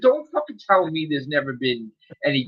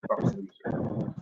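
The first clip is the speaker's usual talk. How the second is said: muttered insult; 12 dB quieter than usual. Real, not acted. Muttered insult after ranting.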